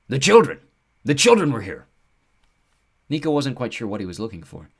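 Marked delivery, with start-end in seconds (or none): 0.1-1.9 high loud eager creature; thrilled, catching the scent; excited centaur. Acted.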